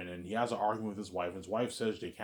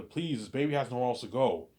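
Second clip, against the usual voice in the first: raised, mild mock plea; begging; 4 semitones higher than usual. Man asking the agency to take the baby, mildly begging. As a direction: plead lightly, pitched up. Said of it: "he's begging her".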